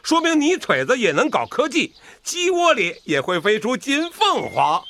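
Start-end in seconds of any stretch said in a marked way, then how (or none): 2.2-4.9 proud laughing boast. Acted. Proud farmer laughing at his honour.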